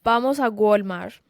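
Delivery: "Walmart" said as "Gualmar", hard g, no final t; Spanish-accented "Vamos a Walmart"; Colombian aunt accent. Retold or imitated. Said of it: "she goes".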